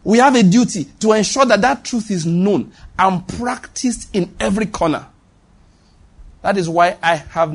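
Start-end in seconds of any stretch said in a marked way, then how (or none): 0.0-5.1 higher, emphatic restatement landing on "practiced"; "practiced" stressed firmly within a raised, insistent line. Real, not acted. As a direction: drive the point home, punching "practiced". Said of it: "The emphasis today, practiced".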